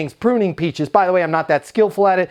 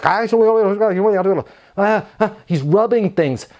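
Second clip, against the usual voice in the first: lightly voiced mumbling ahs, a hint of a gruff old gardener; Tony's tree language; slower than usual. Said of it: "He's talking to it in his little Tony language".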